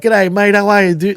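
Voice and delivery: lightly hammed-up Australian accent; friendly, slightly exaggerated Australian hello; overdone Australian greeting. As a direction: play up the Aussie for Americans. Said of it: "if you keep overdoing it".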